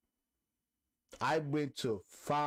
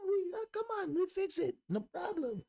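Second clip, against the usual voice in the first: put-on high, bright Hispanic accent voice; friendly mechanic in Hispanic accent; 11 semitones higher than usual. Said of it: "Hispanic accent".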